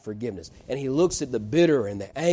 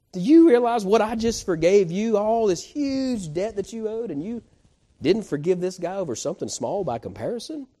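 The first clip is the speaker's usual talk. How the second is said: rebuking king; 6 semitones higher than usual. Retold or imitated. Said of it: "And the king said".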